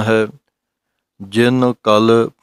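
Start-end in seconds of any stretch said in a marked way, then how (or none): 1.2-2.3 ਕਲ short and soft, not a doubled ਕੱਲ; slow ਜਿਨ ਕਲ with a light ਲ; soft ਕਲ demo. Shown as a demonstration. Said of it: "ਕਲ ਪਾਠ ਪੋਲਾ ਜਿਹਾ ਬੋਲਣਾ".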